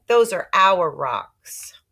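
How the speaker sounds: loud, slow, firm insistence; indignant claim. Acted. Peter telling Sheila the rocks are theirs, loud slow insistence. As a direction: lay claim slowly and loudly. Boy confronting girl on rocks.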